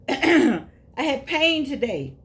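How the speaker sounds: high, loud drawn-out whoa, then slow emphasis; hammed-up wail about aches, stretching the words; acted exclamation. Imagining life at eighty-three and its pain, acted exclamation. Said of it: "you're gonna be like".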